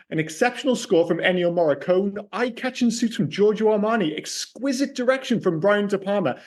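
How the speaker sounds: scripted film-show introduction read; measured, rehearsed host presentation; podcast intro. Acted. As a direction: read a polished review intro to listeners.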